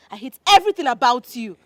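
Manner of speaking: angry shouting. Acted. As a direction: spit out the hatred with force. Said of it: "wait, you're shouting at me".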